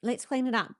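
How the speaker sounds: light, high and unfazed; gentle mum. Retold or imitated. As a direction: chirp it like an unbothered mother. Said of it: "his mum will go".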